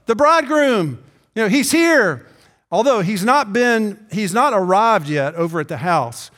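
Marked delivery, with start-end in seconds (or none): 0.0-2.3 higher, raised urgent announcement; excited call. Retold or imitated. Messenger telling the bridesmaids the bridegroom is here, excited call. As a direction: rouse them with the news. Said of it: "the cry meant".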